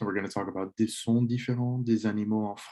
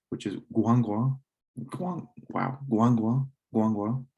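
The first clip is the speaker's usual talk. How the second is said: pig sound demo; slower than usual. Shown as a demonstration. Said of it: "a pig or un cochon".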